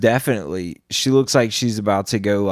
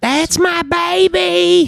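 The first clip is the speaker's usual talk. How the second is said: put-on very high, shrill, raspy smoker's screech, "baby" stretched; 5 dB louder than usual. Imagining someone in the crowd yelling when she starts dancing: imitating a smoker's scream. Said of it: "screaming that through all the cigarettes".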